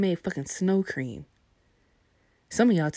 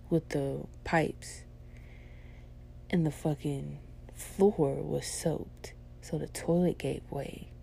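soft, slow near-whisper; hushed aside; 6 dB quieter, slower than usual. Real, not acted. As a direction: lean in and half-whisper the gross part. Telling gross story quietly.

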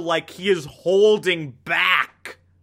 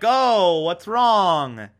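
mock concern; 3 semitones higher, much slower than usual. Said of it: "Stan's like".

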